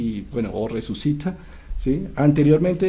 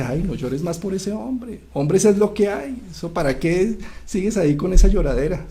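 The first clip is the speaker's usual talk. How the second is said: high, brushing-off voice, pitched up; dismissive scolding sister; 6 semitones higher than usual. Retold or imitated. Inanna brushes off her grieving sister, high and dismissive. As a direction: wave away her grief from on high.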